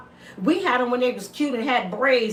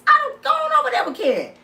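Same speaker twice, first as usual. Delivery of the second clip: much higher, fast mocking brush-off; mocking a man leaving for Karen, high and fast; dismissive mock voice; 13 semitones higher, 4 dB louder, faster than usual. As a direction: shoo him off in a high mocking voice.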